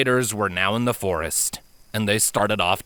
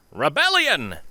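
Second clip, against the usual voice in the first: gleeful; 8 semitones higher than usual. Acted. Filly's gleeful inner cry.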